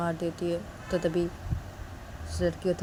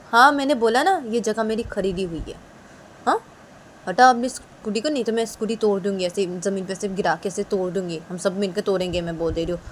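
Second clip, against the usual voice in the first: bully a new student off her spot; bossy threat; 3 semitones higher, 6 dB louder than usual. Acted. College bully threatens new girl over scooter, loud and bossy. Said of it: "वो लड़की बोलती कि".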